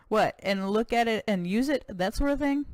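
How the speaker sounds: lightly voiced American cowboy governor, proud; a touch of boastful Texan governor.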